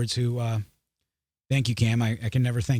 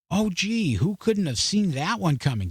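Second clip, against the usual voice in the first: sarcastic, higher-pitched fake amazement; mock surprise; 6 semitones higher than usual. Real, not acted. Commentator mocking news of knife control, with sarcastic surprise. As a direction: feign surprise at the utterly predictable.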